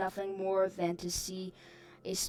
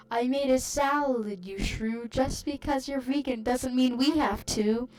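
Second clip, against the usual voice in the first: loud, higher angry snap; barked retort; 4 semitones higher, 4 dB louder than usual. Retold or imitated. Vegan aunt snapping back at dad, loud angry bark. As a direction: bark it at her with scorn. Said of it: "Dad barked".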